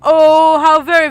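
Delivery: a hint of a haughty schemer; lightly voiced smug noble. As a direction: play it oily and smug. Voices Manly.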